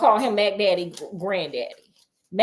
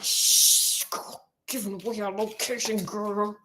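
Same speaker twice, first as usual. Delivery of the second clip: breathy whispered warning, much softer; hushed whisper; 6 dB quieter, slower than usual. Retold or imitated. Jim silencing the girl while hiding, whispered. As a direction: hush her so nobody hears. Hiding in woods, hand over mouth.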